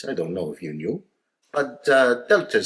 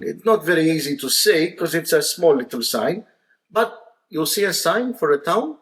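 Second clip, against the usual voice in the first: put-on higher, louder Maltese-accented directions; sly Maltese dad setting up the punchline; 6 semitones higher, 4 dB louder than usual. Maltese dad slyly directing the Australian, higher and louder. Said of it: "he says".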